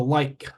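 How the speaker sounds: "like" with the final K released separately; last-sound demo. Shown as a demonstration. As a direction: draw attention to the K ending "like". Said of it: "the last sound of the word".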